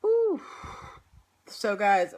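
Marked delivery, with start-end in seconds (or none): 0.1-0.4 pained ooh. Real, not acted. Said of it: "my shoulder has been hurting me".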